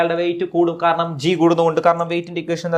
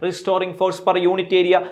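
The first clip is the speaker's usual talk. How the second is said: slow dictation; much slower than usual. Shown as a demonstration. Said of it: "dictating definition".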